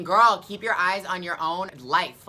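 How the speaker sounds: loud, slow, sassy put-down; sassy inner retort. Retold or imitated. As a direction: tell the starers off with attitude. Inner retort to staring crowd.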